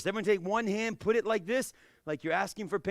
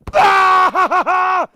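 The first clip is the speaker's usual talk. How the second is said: high, loud, wild "Bah!"; wild karate yell "Bah!"; mean crazy kia; 13 semitones higher, 19 dB louder than usual. Shown as a demonstration. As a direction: yell "Bah!" meaner and crazier. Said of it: "Kia meaner and louder and crazier than me".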